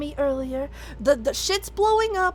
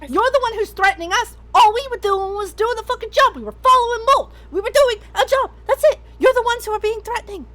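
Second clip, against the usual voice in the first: angry yell; 4 semitones higher, 3 dB louder, faster than usual. Acted. Character yelling at captors.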